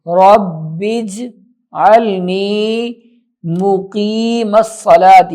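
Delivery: رب اجعلنی مقیم الصلاۃ recited slowly; slow correct recitation. Shown as a demonstration. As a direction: model recitation, drawn out. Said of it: "ربی جعلنی نہیں". (آہستہ تلاوت)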